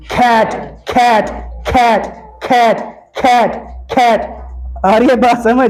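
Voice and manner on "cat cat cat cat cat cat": cat with a strong breath after the c; aspirated cat demo. Shown as a demonstration. Teacher repeating cat so the class hears the aspiration. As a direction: puff hard on the c of cat. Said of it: "सी A T".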